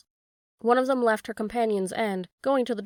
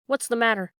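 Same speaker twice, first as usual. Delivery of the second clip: mild shout; 4 dB louder than usual. Acted. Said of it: "he leaped to the window and shouted".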